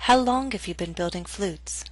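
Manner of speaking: "How long have you been building flutes?" falling to the end; falling intonation. Shown as a demonstration. Teacher reads an interview question as example, falling intonation. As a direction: let the pitch drop on "building flutes". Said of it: "use falling intonation".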